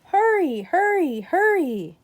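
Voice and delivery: high, loud urgent call, easing down; rally the crew, fast; urgent hurry. Acted. Firemen rushing to a fire, urging each other on loudly.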